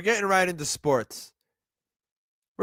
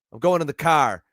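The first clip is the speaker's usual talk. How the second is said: light Boston accent, dropping the r in car; 3 semitones lower than usual. Shown as a demonstration. Explaining Boston versus New York speech, in a Boston accent. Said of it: "that's Boston".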